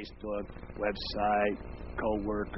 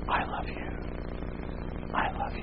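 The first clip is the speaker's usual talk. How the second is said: God's whisper. Acted. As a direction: whisper as God would. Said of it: "I've heard him say that".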